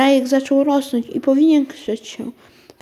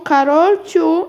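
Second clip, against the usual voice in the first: higher, louder, slow stretched call of a name; drawn-out call; 6 semitones higher, 4 dB louder, slower than usual. Acted. Mother calls again, slower and drawn out. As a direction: stretch the name out so she hears. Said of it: "rozległ się nagle z pokoju głos mamy".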